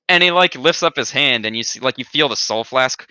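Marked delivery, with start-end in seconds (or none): 0.0-0.1 a big, loud laughing shout. Acted. Grim bursting into a loud laugh at the party's question.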